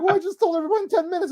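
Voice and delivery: high, quick flustered protest with a laugh; hammed-up fluster; mock flustered actress. Voicing actress.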